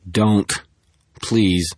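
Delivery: strained voice begging her to stop; strained plea. A narrator's reading. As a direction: force the words through a strained throat. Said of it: "his voice strained".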